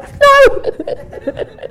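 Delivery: high, loud mock wail of refusal; a hammed-up cry of horror; mock horrified no. Reacting to being told chemo.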